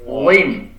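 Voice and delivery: "Zim" with a thick emphatic Arabic Z; heavy zha. Shown as a demonstration. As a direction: raise the back of the tongue for a heavy, rounded "Zim".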